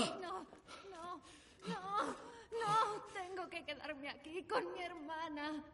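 high, distraught wail; tearful protest. Acted. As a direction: protest tearfully while being dragged away. Dragged away from her sister. (protesta llorosa)

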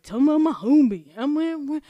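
loud, hammed-up ghetto-girl impression; extra ghetto girl. Host mocking a rapper's persona, extra ghetto girl. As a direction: belt it high with exaggerated attitude. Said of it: "that extra ghetto girl".

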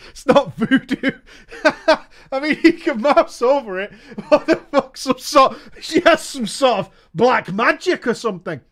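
giggling through the words; laughing. Real, not acted. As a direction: laugh while you talk. Laughing at black magic.

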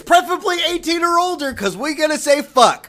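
loud, high showman announcing; ringmaster. Acted. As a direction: roll up the crowd like a circus barker. Host opening the show.

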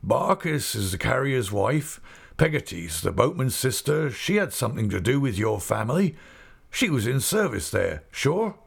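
put-on old man delighted by a sudden memory; old Mister Omer. Omer recalls Peggotty.

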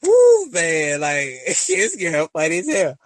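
can't stop laughing while talking; real giggling through the words. Real, not acted. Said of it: "I can't stop laughing".

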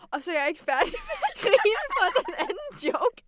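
high-pitched words breaking into laughter; not done laughing, voice climbing high; laughing retelling. Retold or imitated. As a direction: tell it through leftover giggles. Still laughing at joke.

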